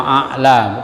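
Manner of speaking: a'la with a glottal stop in the middle; hamzah for ain. Shown as a demonstration. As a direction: break a'la with a plain catch. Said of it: "jangan hamzah dengan hamzah". (a'la dibaca dengan hamzah, bukan ain)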